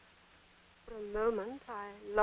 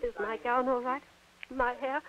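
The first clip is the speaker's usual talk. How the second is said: backstage whisper; 4 semitones lower, 10 dB quieter, faster than usual. Real, not acted. Nervous actress hushed backstage.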